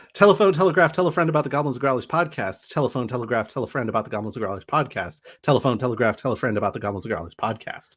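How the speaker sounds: rattled off very fast, at top speed. Saying the podcast tagline three times as a tongue twister, very fast. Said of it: "try and say it three times fast".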